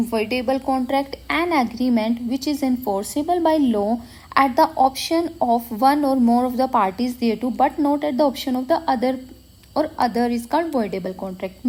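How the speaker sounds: dictating a definition. Acted. Reads the definition aloud slowly.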